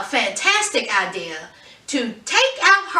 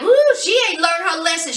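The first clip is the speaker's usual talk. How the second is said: sassy aside; 5 semitones higher, 4 dB louder, faster than usual. Retold or imitated. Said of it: "So I was like".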